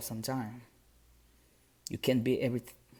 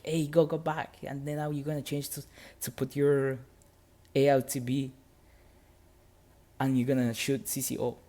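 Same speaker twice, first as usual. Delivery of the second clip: higher, louder brisk orders; upbeat drill sergeant; 3 semitones higher, 3 dB louder than usual. Retold or imitated. Drill sergeant sending him back to the range, brisk higher orders. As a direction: bark the next steps cheerfully.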